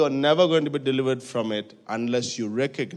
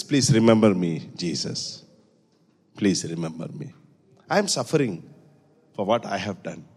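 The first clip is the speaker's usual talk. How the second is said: pleading; 5 semitones lower than usual. Retold or imitated. Thief pleading with Jesus.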